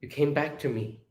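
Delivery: soft, mildly tearful relief; understated, moved welcome; tearful smile. Acted. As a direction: say it softly through a smile. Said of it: "has a tearful smile".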